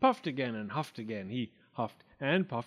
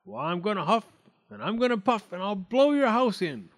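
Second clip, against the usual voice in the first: high, loud wolf threat, building; big bad wolf menace, swelling; leering wolf; 8 semitones higher, 6 dB louder than usual. A narrator's reading. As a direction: build gleefully to the big blow. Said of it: "The wolf leered back".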